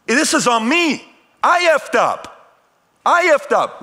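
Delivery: high, loud impassioned outburst; angry screaming. Retold or imitated. Son in tears defending his dad in the car, screaming angrily. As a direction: scream it in furious protest, pitch way up. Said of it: "I'm screaming at him".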